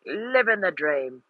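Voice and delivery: soft, low-key Welsh accent attempt; a Dick Van Dyke style Welsh accent. Shown as a demonstration. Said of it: "tell me if this sounds like Dick Van Dyke".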